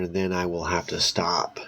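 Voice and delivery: whispered aside to listeners. Real, not acted. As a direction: breathe it out, no voice.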